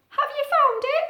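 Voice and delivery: high, hopeful owlet question; high little owl voice. Acted. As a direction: ask the mouse hopefully. Owlet asks the mouse.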